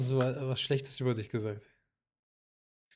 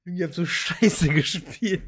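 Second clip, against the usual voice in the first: annoyed scolding; 3 semitones higher, 7 dB louder, slower than usual. Real, not acted. Scolding teammates after loss.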